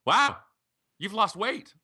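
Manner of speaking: high, loud imitation of astonishment; amazed exclamation. Guest imitating the embarrassed woman once she recognizes him, amazed. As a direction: pitch it way up in mock amazement.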